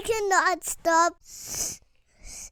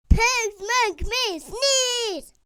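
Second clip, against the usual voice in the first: distressed outburst; 4 semitones higher, 4 dB louder, slower than usual. Acted. Tells doctor in distress.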